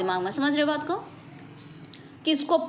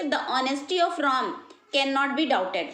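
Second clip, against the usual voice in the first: slow example; much slower than usual. Shown as a demonstration. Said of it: "जैसे".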